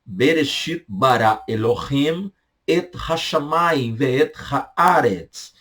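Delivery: Bereshit bara Elohim read slowly in Hebrew; slow Hebrew recital. Shown as a demonstration. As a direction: read the Hebrew verse slowly, sounding each word.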